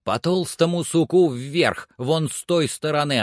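a hint of a man giving orders up to a climber; lightly voiced Legrand.

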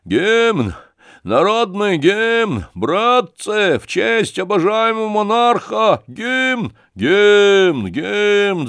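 put-on high drunken bellow for the anthem; loud, rowdy thug's shout. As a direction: roar the demand at the whole room. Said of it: "крикнул".

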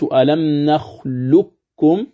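ألم نخلقكم slowly, qaf merged into kaf, no qalqala; recitation demo, preferred way. Shown as a demonstration. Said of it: "وهذا هو المقدم".

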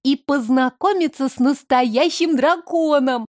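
put-on high, breathy eager girl; breathless child. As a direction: gasp it out in awe. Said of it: "с придыханием продолжила Майя".

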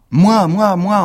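high, loud eager cries of me; children shouting. Acted. Pupils clamoring to speak into the microphone, shouting. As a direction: shout to be picked first. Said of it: "on a tous crié".

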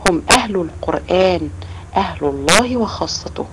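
slow, measured quoting of the Prophet's words; slow hadith recitation. Retold or imitated. Teacher slowly reciting the hadith to the children, measured. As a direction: recite each word deliberately. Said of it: "فالرسول عليه الصلاة والسلام قال".

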